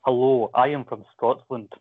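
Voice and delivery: slow, lightly exaggerated Scottish accent; a mock-formal touch of Scottish accent; Drew's Scottish accent. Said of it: "me to do the Drew accent".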